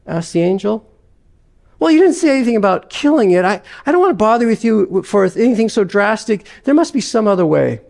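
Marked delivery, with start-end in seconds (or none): 1.8-7.8 higher, fast flustered protest; a ghost backpedalling in a hurry. Acted.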